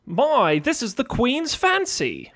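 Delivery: high, slow, hammed-up British voice; mock British accent. American co-host pitching catchphrases as a fake Brit, mock British accent. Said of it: "Something Britishy".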